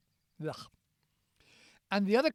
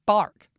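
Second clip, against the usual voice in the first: mock bark; 3 semitones higher, 9 dB louder than usual. Shown as a demonstration. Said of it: "For example".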